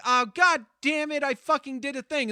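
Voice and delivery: hammed-up self-cursing; frustrated outburst. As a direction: blurt it out as if you just messed up. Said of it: "I'll be like".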